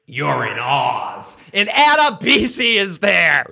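big drawn-out announcement, building to a shout; hyped-up reveal. Real, not acted. Host reveals a familiar actor to fans, hyped shout.

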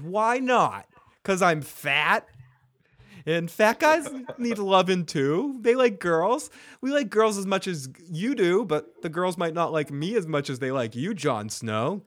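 imitating a hurt friend arguing back; retold indignant protest. Sam argues fat guys need loving, retold indignation.

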